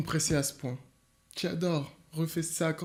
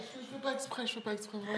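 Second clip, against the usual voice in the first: giggling; 8 semitones higher, 8 dB quieter than usual. Real, not acted. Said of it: "le fou rire".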